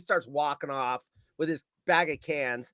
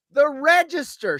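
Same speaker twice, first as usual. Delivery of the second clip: higher, louder panicked call, drawn out; mock scream, held back from full force; retold scream; 8 semitones higher, 7 dB louder, slower than usual. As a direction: cry it out like the alarmed cashier. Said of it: "She screams".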